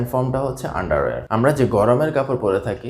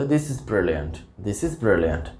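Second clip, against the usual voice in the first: slow, softer demo of "This is brilliant"; British phrasing demo; 3 semitones lower, 3 dB quieter, much slower than usual. Shown as a demonstration. Teacher shows learners how British people praise, slowly. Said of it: "ব্রিটিশরা এভাবে বলে".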